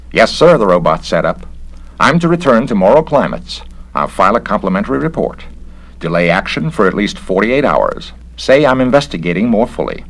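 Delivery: an eager machine reciting orders; robot Garrett. Acted. Robot double reports to his master, high and dutiful.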